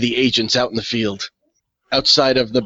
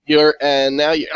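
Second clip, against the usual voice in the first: mock glitchy voice, slow and slightly louder; glitching call audio; 3 semitones higher, 5 dB louder than usual. Player mimicking the call freaking out, choppy glitching voice. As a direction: imitate a breaking-up connection, drawn out. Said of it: "decided to just freak out".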